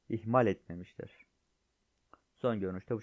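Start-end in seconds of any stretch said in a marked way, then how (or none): 0.1-1.2 louder, amused restatement; emphatic repeat. Real, not acted. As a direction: repeat it to drive it home.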